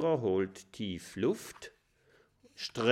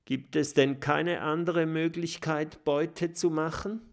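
verzweifelt; 6 semitones higher than usual. Acted.

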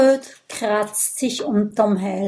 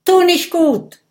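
loud, higher shouted retort; shouting; 8 semitones higher, 8 dB louder than usual. Acted. Gudröd shouting back at Brodier, loud retort. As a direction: call it out across the ring. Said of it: "ruft Gudrud".

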